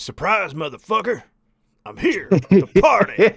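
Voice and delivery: wild party shout; screaming. Retold or imitated. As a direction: yell it like a rowdy ghost. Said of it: "And screams".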